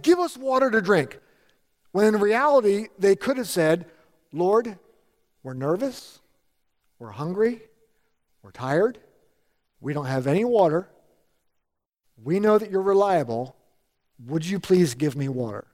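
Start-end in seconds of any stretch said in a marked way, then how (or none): 0.0-1.2 higher, pushy demand for water; mock complaining demand. Preacher mimics Israelites flipping out on God, a mock complaining demand. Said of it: "the Israelites flipped out on God and said". 4.3-15.7 gentle humble request. Retold or imitated. Preacher models conversing with the Lord instead of complaining, a gentle humble request. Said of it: "You see the little bit of the difference there?".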